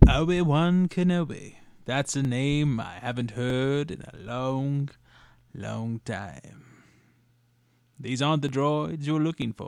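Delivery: put-on old wizard voice. Doing movie lines as Obi-Wan: Alec Guinness Obi-Wan voice. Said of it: "I like to do Alec Guinness Obi-Wan".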